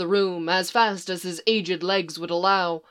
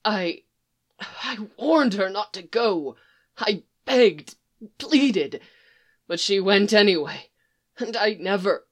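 strangled sob. Acted. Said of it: "he broke off with a strangled sob".

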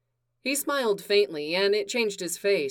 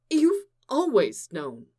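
insisting; 4 semitones higher, slower than usual. Acted. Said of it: "Clark insisted".

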